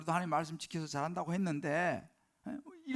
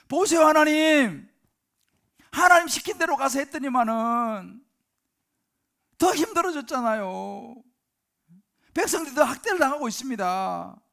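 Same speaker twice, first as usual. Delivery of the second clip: loud, high, aggrieved protest to God; Moses complaining to God; 7 semitones higher, 12 dB louder than usual. Acted. Moses protests to God for his people, loud aggrieved outcry. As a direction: cry out as if wronged by heaven. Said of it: "뭐 그런 이제 이야기한 거예요, 모세가".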